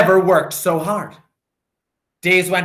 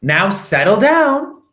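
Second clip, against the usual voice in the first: sweet voice; 6 semitones higher, 5 dB louder than usual. A narrator's reading. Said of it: "said Miss Nelson in a sweet voice".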